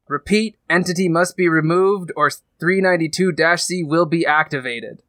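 flat computer announcement voice; robot voice. Acted. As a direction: read it like a ship's AI. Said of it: "a robotic voice goes over the comm saying".

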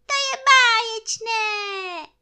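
very high, loud, slow call; joyful shout. A narrator's reading. Bear shouts down to his friend from the balloon, high shout. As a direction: stretch it out in a high sing-out. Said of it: "křičel Medvídek Pů na Krištůfka dolů".

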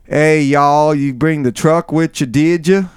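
a lightly played Southern drawl with a drawn-out y'all. Shown as a demonstration. Explaining a drawl to a cohost, a mild Southern accent. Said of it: "you say".

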